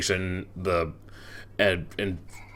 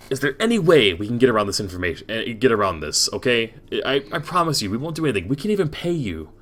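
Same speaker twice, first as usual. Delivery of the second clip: higher-pitched, exasperated bargaining; mildly pissed-off pleading; 3 semitones higher than usual. Acted. Ludwig offers the governor money, exasperated pleading. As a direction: push for a deal with a touch of annoyance. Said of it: "pissed off to hear that".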